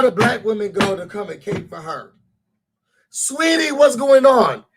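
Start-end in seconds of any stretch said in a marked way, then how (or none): 3.1-4.6 high, sugary sweetie voice; imitating a syrupy comforter; mock sweet concern. Mocking the women who rush to comfort her, high and syrupy.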